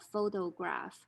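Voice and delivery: "photograph" with a full, crisp t and final f; careful phonemic form. Shown as a demonstration. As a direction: say every sound of "photograph" fully. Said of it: "from the phonemic form".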